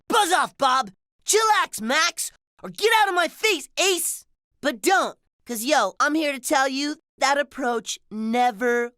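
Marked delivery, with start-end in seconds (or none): 0.1-4.2 mock telling-off, pitch jumping up. Example of telling bullies off, mock dismissive. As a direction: brush off a bully in punchy bursts. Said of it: "tell them off like".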